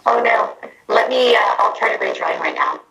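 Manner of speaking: muffled, echoing bad connection; words buried in reverb; talking into a trash can. Real, not acted. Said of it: "hand over your mouth and you're trying to muffle".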